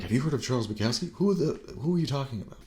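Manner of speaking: mock a puzzled kid who's never heard the name; baffled disbelief. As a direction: pitch jumping up in mock bewilderment. Acted reply of a baffled teen.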